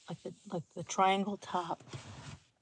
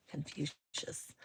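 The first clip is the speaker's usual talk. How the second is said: a slow, lower, solemn lightly put-on Confucius; mock wise sage; 4 semitones lower, 8 dB quieter, much slower than usual. Shown as a demonstration. Streamer mocking a viewer's name, slow lowered sage intoning. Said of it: "It's like going back to my philosophy class".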